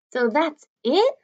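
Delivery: dismayed question. A narrator's reading. Augie disappointed at few guests.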